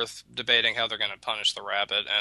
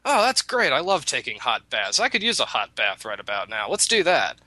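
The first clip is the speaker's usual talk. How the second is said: fake delight; 3 semitones higher than usual. Rabbit pretends to love the punishment, mock delighted. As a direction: gush as if it's a treat. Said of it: "rabbit says".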